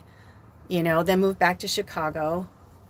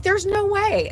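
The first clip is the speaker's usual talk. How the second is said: high, louder no-way; emphatic refusal; 14 semitones higher, 5 dB louder, slower than usual. Retold or imitated. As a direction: hit it high and hard. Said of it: "I'm like".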